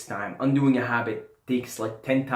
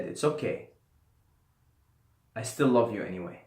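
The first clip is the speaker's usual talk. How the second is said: from a deep place; 3 semitones lower, 4 dB quieter than usual. Retold or imitated. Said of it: "I said it from such a deep place".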